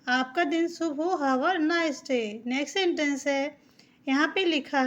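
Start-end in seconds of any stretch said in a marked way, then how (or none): 1.2-2.3 slow model sentence for learners; slow teaching read. Shown as a demonstration. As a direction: dictation pace, word by word. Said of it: "ए को हम आ बोलते हैं".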